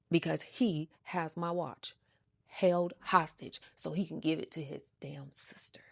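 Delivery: whispered, soft grumble; a hushed dig; bitter whisper. Real, not acted. Aside about the ex.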